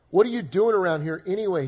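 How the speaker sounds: a mild demanding big-brother snap; lightly voiced annoyed older brother. Preacher voicing Eliab scolding David, mildly demanding. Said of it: "he demanded".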